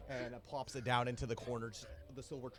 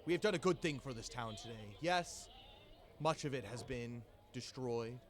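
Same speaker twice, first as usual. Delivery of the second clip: booming jolly pirate captain addressing the crew; rally the crew like a proud captain. Acted. Captain rallies his crew at the feast, jolly and booming.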